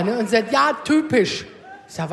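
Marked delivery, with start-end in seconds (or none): 0.5-1.5 mock annoyed husband. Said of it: "da wurde der richtig sauer".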